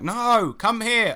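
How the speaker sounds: high-pitched mock wifely refusal; imitated annoyed wife. Wife's refusal acted out.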